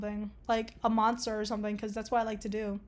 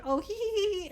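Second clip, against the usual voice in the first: high-pitched, cutesy pretend giggle; acted giggle at fluff; 9 semitones higher than usual. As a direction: squeal out a little mock tee-hee. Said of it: "I'll be like".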